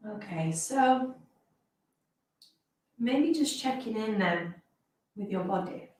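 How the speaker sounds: slow phrases with long pauses; guided meditation. Real, not acted. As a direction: ease listeners gently into rest, phrase by phrase.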